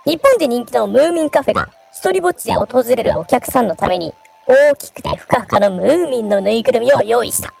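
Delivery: variety show narration. Shown as a demonstration. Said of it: "ちょっとナレーション風に".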